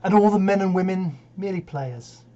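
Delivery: measured, stagey Shakespeare delivery; dramatic verse recitation. Acted. Actor opens Seven Ages of Man to an audience, declaimed. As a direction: declaim it, lingering on key phrases.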